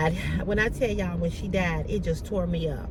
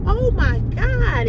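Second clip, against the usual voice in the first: high, loud, slowly drawn-out oh my God; excited scream; 12 semitones higher, 7 dB louder, slower than usual. Retold or imitated. Reacting to her friend's engagement news, slow high squeal. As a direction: squeal it in disbelief. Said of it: "we were screaming on the phone".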